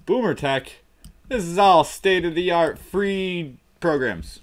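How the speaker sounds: announcer voice. Pretend. Mock announcer intro.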